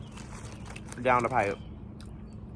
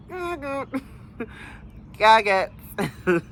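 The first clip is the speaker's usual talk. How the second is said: gag it; 8 semitones higher, much slower than usual. Real, not acted. Repeated gagging exclamation.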